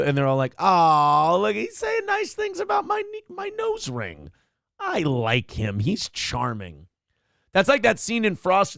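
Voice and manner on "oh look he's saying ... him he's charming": lightly mocked starstruck worker; gushing employee. Employees gushing over Trump.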